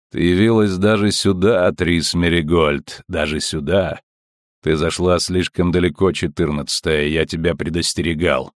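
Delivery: low, cold and mocking; a hostile cruel sneer; metallic cold voice. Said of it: "металлическим, холодным и враждебным". (металлический холодный голос)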